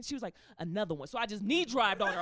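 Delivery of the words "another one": low-pitched catchphrase impression; a famous DJ's voice. Stepmother asking for another kick, a famous DJ's voice. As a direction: drop low for the signature catchphrase. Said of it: "do it in my DJ voice".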